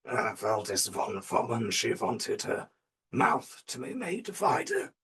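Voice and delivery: lightly voiced mad European surgeon; a hint of crazed professor, stretching the last words.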